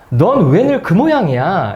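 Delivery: slow, drawn-out parental scolding; imitated critical mother; mock reproach. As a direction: scold your child, lightly acted. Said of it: "이렇게 이제 비난했어요".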